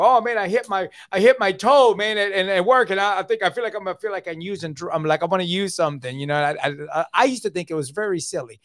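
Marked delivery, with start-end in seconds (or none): 0.0-6.2 whiny complainer. Retold or imitated. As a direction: imitate someone fussing over a stubbed toe. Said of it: "when I'd hear people go".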